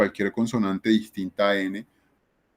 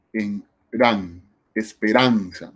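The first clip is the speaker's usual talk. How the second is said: esperanza said slowly with weight on "ran"; stress on RAN; 3 semitones lower, slower than usual. Shown as a demonstration. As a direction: lean on the syllable "ran" in esperanza. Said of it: "¿Dónde va el acento?".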